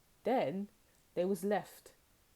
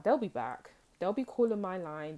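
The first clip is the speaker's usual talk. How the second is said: louder, cocky mock prediction; smug confidence; 5 dB louder than usual. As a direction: play the smug ex who's sure you'll return. Ex smugly predicting your return.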